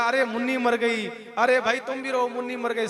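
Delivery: hammed-up village mourning cry; villagers wailing. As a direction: wail along with the whole crowd. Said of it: "जनता सब की सब रोने लगी".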